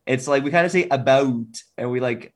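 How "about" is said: "about" with the O hung on a little longer; drawn-out Canadian vowel. Shown as a demonstration. Canadian showing his own speech, "about" with a longer O. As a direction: linger on the ou of "about". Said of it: "we hang that O on the end".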